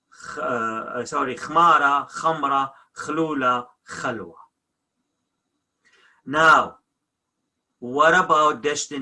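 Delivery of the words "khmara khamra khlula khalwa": khmara, khamra, khlula, khalwa with rasped kh; spoken kh. Shown as a demonstration. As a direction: list khmara to khalwa with throaty ch. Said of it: "it sounds he if the word is not classic".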